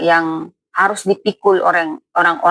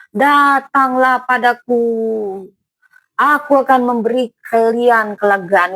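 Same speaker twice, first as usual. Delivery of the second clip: voicing Jesus; 4 semitones higher than usual. Jesus speaking to weary crowd.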